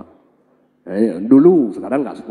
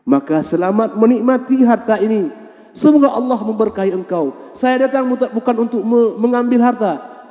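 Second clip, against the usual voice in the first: put-on lofty old man; 10 semitones higher, 4 dB louder than usual. Old man's closing blessing.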